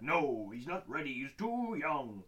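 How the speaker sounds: drawn-out mock refusal; mock objecting dad. Host voicing the dad refusing a dog, drawn-out mock objection. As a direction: stretch the ending in protest.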